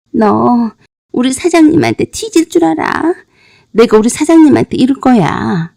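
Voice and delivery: a hint of a sulky girl tattling; whiny threatening girl. Beaten bar girl threatens the wife. (얻어맞은 여자가 사장에게 이르겠다며 앵앵거림)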